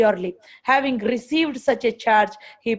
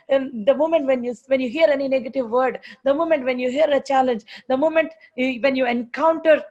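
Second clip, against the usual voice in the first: normal talking voice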